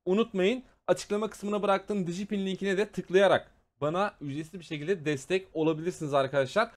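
steady outro pitch to subscribers; youtuber outro. Acted. Streamer thanking viewers at the end, outro voice. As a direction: wrap up the video and ask for likes. Video outro over music.

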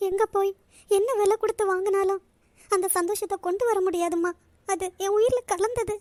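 on the verge of sobbing; acted tearful confession. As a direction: speak through tears, breaking into sobs at the end. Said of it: "அழுதுகிட்டு இருக்க".

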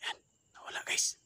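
hushed whisper to viewers. Real, not acted. Whispering to viewers in a haunted house. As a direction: whisper so nothing hears you.

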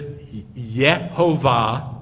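slow "Yehovah", separated as yeh-ho-vah; emphasized with eh. Shown as a demonstration. Teacher checking which vowel is emphasized, slow syllable-by-syllable "Yehovah". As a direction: sound out "Yehovah" starting on a short eh. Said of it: "emphasized with the eh".

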